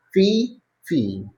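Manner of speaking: "fee" said like "fear"; merged modern vowel. Shown as a demonstration. Teacher showing how some speakers merge sounds. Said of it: "pronouncing these words the same".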